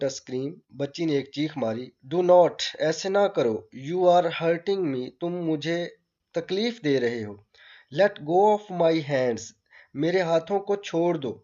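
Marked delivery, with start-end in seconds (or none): 2.1-11.3 put-on frightened child. Child fights the doctor, pleading.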